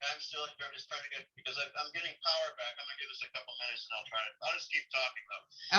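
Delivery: quiet voice over a speakerphone; distant sound through a phone; phone speaker. Real, not acted. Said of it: "why don't I put you on speaker with my phone".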